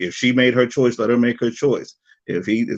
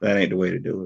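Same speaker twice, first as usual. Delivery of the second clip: normal talking voice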